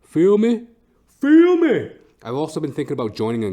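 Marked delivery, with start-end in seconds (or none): 0.0-0.7 louder, higher tough-guy call; hyped. Pretend. 1.2-1.9 high, loud yelled hype; hyped shout. Pretend. Escalated tough-guy hype.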